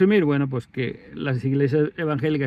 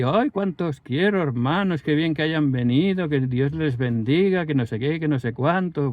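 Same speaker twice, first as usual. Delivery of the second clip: syrupy pastor; 2 semitones higher than usual. Retold or imitated. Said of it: "se deshacía en caramelo con nosotros".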